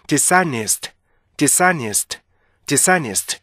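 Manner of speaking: "디사니스트" run together as one smooth word; linked native reading. Shown as a demonstration. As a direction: link the s into the next vowel in "디사니스트", no break. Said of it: "이렇게 읽어야 되는데". ("디사니스트"를 붙여서 한 단어처럼)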